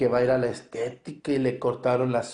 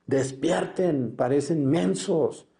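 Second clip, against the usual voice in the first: urgent scolding; 4 semitones higher, slower than usual. Real, not acted. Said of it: "exhorting the congregation".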